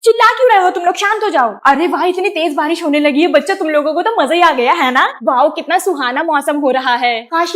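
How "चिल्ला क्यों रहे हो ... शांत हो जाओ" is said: teacher scolding. Acted. Teacher scolds noisy kids.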